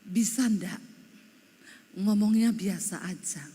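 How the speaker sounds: C=78,79; imitated complaining husband. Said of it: "Dia bilang gini".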